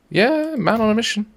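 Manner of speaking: high, excited hype for the train; hammed-up hype voice; excited cheer. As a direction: cheer it on like a sports fan.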